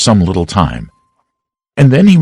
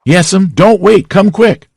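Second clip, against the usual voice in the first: much higher, louder, slow pleading; urgent; 11 semitones higher, 3 dB louder, slower than usual. Acted. Sid begging Aunt Polly to hurry upstairs, high and loud. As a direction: beg her to hurry.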